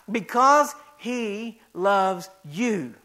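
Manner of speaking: very slow, gentle assurance; tender repeat. Acted. Pastor reassuring listeners of God's love, slow and tender.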